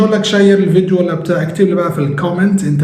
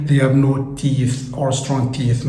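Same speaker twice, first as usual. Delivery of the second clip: slow dictation; 2 semitones lower, 4 dB quieter, much slower than usual. Shown as a demonstration. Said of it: "teacher slow English sentence".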